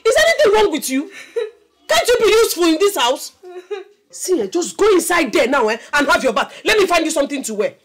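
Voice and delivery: high, loud maternal tirade; furious shouting. Acted. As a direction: scold at full volume, exasperated. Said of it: "sorry, I will not shout again".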